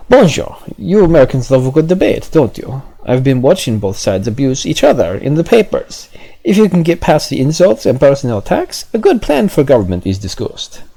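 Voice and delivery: put-on high, loud French accent; hammed-up French official. French official addressing the American pamphleteer, hammed-up French accent. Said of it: "I think I tried to do his accent before".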